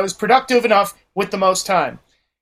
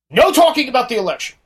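higher-pitched opening proclamation, lightly imitated; mock speech-giving boss; 5 semitones higher, 3 dB louder than usual. Manager addressing the gathered staff, mimicked as a political speech. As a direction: announce the rule like a self-important boss, retold. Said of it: "when I say political speech, he went".

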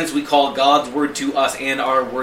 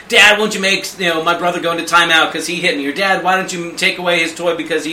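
higher, louder whiny child, lightly put on; tattling kid; 4 semitones higher, 5 dB louder than usual. Child tattling on brother to Dad, mock whine. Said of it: "come to me tattling and be like".

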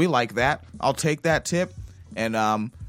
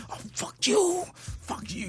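put-on hushed whisper so the kid won't wake; 13 semitones higher, 7 dB quieter than usual. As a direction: whisper the curse, keeping it down. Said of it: "I have to whisper in the house".

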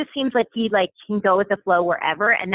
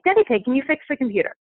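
higher-pitched, badly done British accent; terrible British accent; 5 semitones higher than usual. Mom imitates Mummy Pig asking Daddy Pig, terrible British accent. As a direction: put on a clumsy British accent. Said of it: "this is a terrible accent right now".

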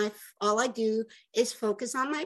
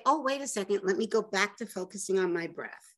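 gently; 3 semitones lower than usual. Shown as a demonstration. Gently telling herself to return to the breath. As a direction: guide yourself back gently. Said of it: "just gently say".

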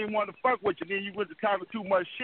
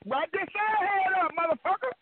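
mocking retort; 10 semitones higher than usual. Real, not acted.

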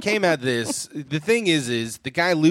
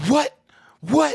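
high squeak; 11 semitones higher, 4 dB louder than usual. Pretend. Mock confused squeak.

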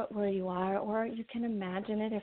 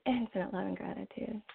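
soft spa whisper; 5 dB quieter than usual. Shown as a demonstration.

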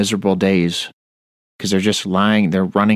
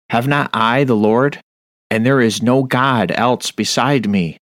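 fiery scripture reading; 2 semitones higher than usual. Acted. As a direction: call out the prophet's words over the congregation. Reads Isaiah at full force.

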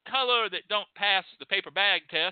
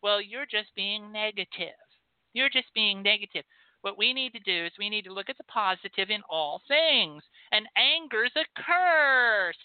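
smug dismissal; 3 semitones higher than usual. Retold or imitated.

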